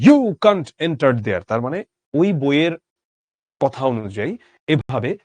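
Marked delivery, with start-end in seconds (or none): 0.1-1.4 "You" punched loud, the rest drawn out; slowly, with a hard accent on "You"; first-syllable stress. Shown as a demonstration. Teacher demonstrating sahib English, forceful stress on "You". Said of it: "পয়লা সিলেবলে".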